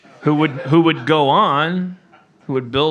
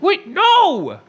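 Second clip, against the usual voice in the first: high, loud cry of alarm; yelling retold; 14 semitones higher, 5 dB louder than usual. Dad calling to his five-year-old on the bobsled coaster, mock yell. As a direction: re-enact hollering ahead from the car behind. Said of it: "I kept yelling".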